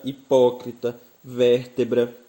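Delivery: "hipócrita, vértebra" with weight on "pó" and "vér"; "hipócrita, vértebra", third-last syllable standing out; stress on antepenultimate syllable. Shown as a demonstration. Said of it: "a sílaba tônica encontra-se na antepenúltima".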